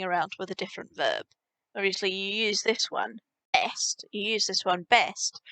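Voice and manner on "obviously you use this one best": whisper. Real, not acted. Aside while explaining usage.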